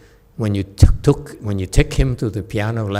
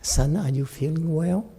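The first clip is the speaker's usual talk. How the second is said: soft, tender check-in with a son; gentle caring question; 6 semitones higher, 5 dB quieter than usual. Shown as a demonstration. Parent touching son and asking softly. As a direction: ask softly, as if a hand is on his shoulder. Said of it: "you touch him and say".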